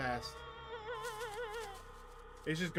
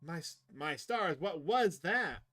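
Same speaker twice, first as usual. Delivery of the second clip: acted astonishment; 2 semitones higher, 4 dB louder, slower than usual. Character startled by a sound in the woods, theatrical astonishment. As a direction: draw it out with big pitch swoops.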